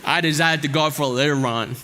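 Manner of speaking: attempting a Forrest Gump Southern accent. Pastor tries a Forrest Gump Southern accent for church. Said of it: "I'm gonna attempt to do the accent".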